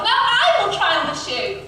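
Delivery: second sister's loud announcement; yelling. A narrator's reading. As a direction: yell it pushily. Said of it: "who yelled".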